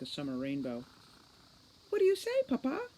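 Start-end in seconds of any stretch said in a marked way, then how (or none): 1.9-2.9 deep bass. Acted. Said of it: "said Angeline in a deep bass".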